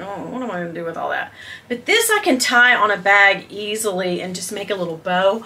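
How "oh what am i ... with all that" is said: muttered mock quote. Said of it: "you're kinda like".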